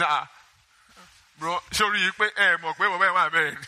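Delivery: lightly voiced scared civilian begging off; a hint of a panicked recruit pleading to be let go; mild mock pleading of a coward soldier; frightened civilian. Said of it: "Only a civilian will talk like that".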